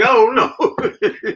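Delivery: high, slow, drawn-out "I don't know"; doubtful I don't know. Retold or imitated. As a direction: stretch it out high and unsure, half laughing. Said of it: "I'm like".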